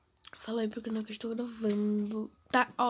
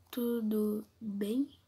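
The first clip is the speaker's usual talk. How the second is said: talking low; 4 dB quieter, much slower than usual. Real, not acted. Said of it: "eu tô falando baixo".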